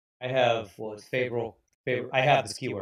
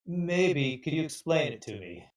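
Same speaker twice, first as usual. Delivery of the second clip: confused; 3 semitones higher than usual. Acted. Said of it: "looks confusedly back and forth".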